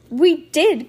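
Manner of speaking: loud, high insistence; crying out. A narrator's reading. Lucy insisting to her mom, crying out. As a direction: burst out with it. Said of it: "cried Lucy".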